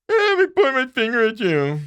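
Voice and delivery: hammed-up macho taunt; mock tough guy. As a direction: parody the finger-pointing hothead. Mocking the manager.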